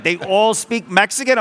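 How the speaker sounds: hammed-up astonished customer; mock disbelief. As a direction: stretch it out in wide-eyed disbelief. Imitating amazed Aussie customers.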